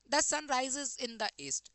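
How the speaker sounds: very slow, word by word; slow dictation. Shown as a demonstration. Teacher dictating the sentence slowly to students. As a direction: read it out slowly for the class. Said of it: "reading sentence to students".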